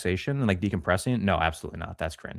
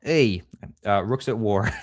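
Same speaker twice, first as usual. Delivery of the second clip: put-on Italian accent; slower than usual. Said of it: "That's all I got for Italian".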